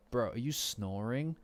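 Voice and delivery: hammed-up incredulous heckling; mock disgust. Yokai critiquing someone snoring in their sleep, mock disgust. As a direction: act appalled, stretching the key words.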